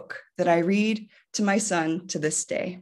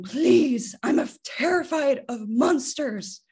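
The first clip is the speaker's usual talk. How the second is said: pleading Grover; 5 semitones higher than usual. Acted. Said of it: "Grover is pleading".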